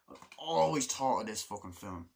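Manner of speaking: slightly forceful insistence; mildly aggressive emphasis on "always"; a touch aggressive. Real, not acted. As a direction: push it out a little aggressively. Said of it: "said that so aggressively".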